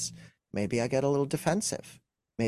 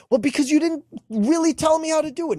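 much higher, put-on whiny excuse; whiny defensive reply; 6 dB louder than usual. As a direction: whine the excuse back at her. Acted defensive husband reply.

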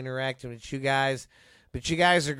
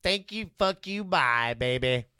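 Jim Cornette; 2 semitones higher, slower than usual. Retold or imitated. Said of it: "in the words of Jim Cornette".

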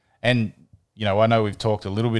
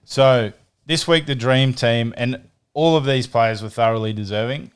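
French accent; 3 semitones higher, 4 dB louder than usual. Shown as a demonstration. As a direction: play a jokey French accent for the team list. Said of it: "I'll do my best French accent".

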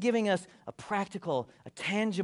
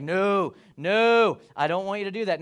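louder, protesting no; Peter refusing; 7 dB louder than usual. Retold or imitated. Peter refusing to let Jesus wash his feet, loud protest. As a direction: push back like the embarrassed disciple. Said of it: "And Peter's like".

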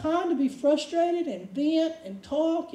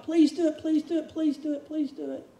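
begging; 3 semitones higher than usual. Retold or imitated. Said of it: "We beg God".

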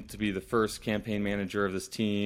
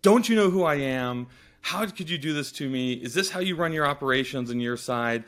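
angry; 5 semitones higher, 4 dB louder than usual. Retold or imitated. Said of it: "she was pissed".

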